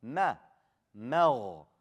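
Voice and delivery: Ma with a thin, fronted vowel; light meem. Shown as a demonstration. Teacher corrects the mistake with a light Ma. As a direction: keep the m in Ma light. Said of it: "Don't make the meme heavy".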